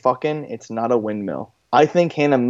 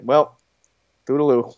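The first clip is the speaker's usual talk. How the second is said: flat. Retold or imitated. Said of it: "like, so flat".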